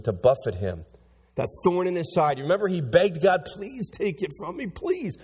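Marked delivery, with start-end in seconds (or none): 3.6-5.2 pleading. Acted. Voices Paul begging God.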